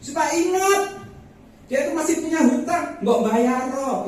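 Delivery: loud, high-pitched plea to God; pleading prayer. Retold or imitated. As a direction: re-enact an insistent, exasperated prayer. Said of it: "Berkali-kali saya berdoa".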